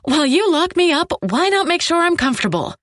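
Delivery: high-pitched scornful mockery; sarcastic sneer. A narrator's reading. Captive mocking the man who locked her up, sneering. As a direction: sneer it, heaping sarcasm on the last word. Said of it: "I sneer the last word".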